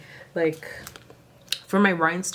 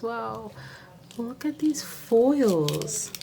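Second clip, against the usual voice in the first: higher, slow and drawn out; excited; 5 semitones higher, much slower than usual. Real, not acted. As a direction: savour it with delight. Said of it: "I'm so excited".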